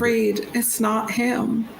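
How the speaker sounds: high, insistent plea; Agora pleading. Acted. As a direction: plead with a friend to let go. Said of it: "like, pleading in Agora's voice".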